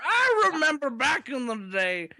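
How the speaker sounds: high, laughing Cosby voice, words sped up; Bill Cosby impression. Joking about old days, laughing Bill Cosby impression. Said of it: "That's, that's Bill Cosby".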